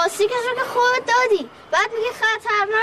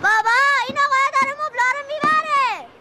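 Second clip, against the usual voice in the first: put-on child calling out to his father; calling for dad. Boy calls dad over the movers, calling out. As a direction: shout for dad to come and see. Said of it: "داد نزن".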